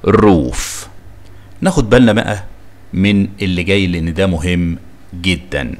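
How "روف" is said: روف with a drawn-out oo; long double O. Shown as a demonstration. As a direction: hold the vowel in روف. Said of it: "بتنطق لونج زي". (روف بواو ممدودة)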